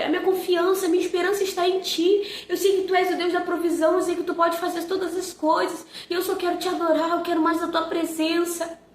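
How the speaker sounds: earnest, devout prayer voice. Retold or imitated. Mother praying during devotional about her son, earnest prayer.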